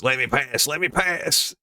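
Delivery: hammed-up demanding passenger; disruptive passenger. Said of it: "wait, in her voice".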